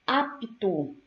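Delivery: "Apto" in careful pieces, P apart from T; P-T cluster shown. Shown as a demonstration. Teacher giving a P T example, careful word demo. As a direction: sound out "apto" with a distinct P before the T. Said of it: "o encontro consonantal P T".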